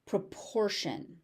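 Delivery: "Proportion" with the T said as sh; sh sound in proportion. Shown as a demonstration. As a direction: say "Proportion" ending in a soft sh sound. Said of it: "The T is a sh sound".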